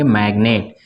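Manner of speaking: "मैग्नेट" with the g sounded before n; don't silence the g in "मैग्नेट"; g pronounced. Shown as a demonstration. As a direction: say "मैग्नेट" with an audible hard g. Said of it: "इसमें जी silent नहीं रहेगा, इसको पढ़ेंगे".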